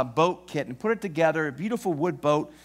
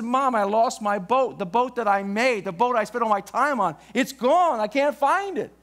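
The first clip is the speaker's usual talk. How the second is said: mild retold crying; 4 semitones higher than usual. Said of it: "He began to cry".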